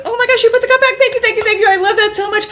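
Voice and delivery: very high, excited, hammed-up praise; gushing thanks. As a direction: pour out thanks as if praising a puppy. Acted over-the-top praise of husband.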